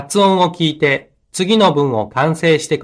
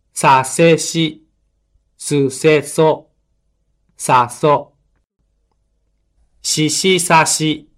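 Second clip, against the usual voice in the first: mora-timed; slower than usual. Shown as a demonstration. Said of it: "拍に注意して発音してください".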